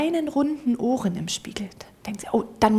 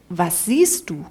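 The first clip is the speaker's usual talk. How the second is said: lower, a slow grand question; deep voice of God; 5 semitones lower, slower than usual. Acted. The cat posing as God asks the mouse, low and grand. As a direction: ask it like a mighty voice from the front.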